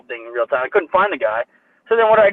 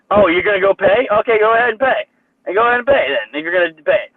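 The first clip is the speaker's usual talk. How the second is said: higher, taunting imitation of the guy; mocking staff guy; 5 semitones higher, 3 dB louder than usual. Imitating the smug grocery worker, taunting. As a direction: sneer it like a smug employee daring him. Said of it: "And the guy was like".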